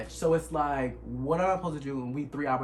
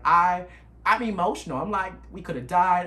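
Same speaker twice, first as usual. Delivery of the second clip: emotional; 5 semitones higher, 8 dB louder than usual. Retold or imitated. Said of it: "crying while driving".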